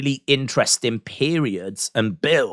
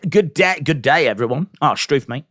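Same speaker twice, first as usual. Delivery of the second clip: playful Aussie twang on the greeting; mock Australian accent; 4 semitones higher than usual. Reading out a viewer's chat greeting, in a hammed-up Australian accent. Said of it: "I don't know why I've gone Australian".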